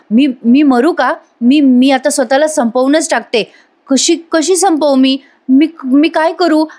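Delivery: imitating a terrified prisoner losing it; mock panic. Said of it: "स्वतःलाच असं घाबरत असते".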